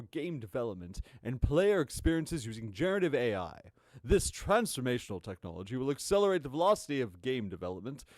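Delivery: a hint of a pompous exec; lightly pompous corporate read. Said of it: "very pompous voice that I've assigned him".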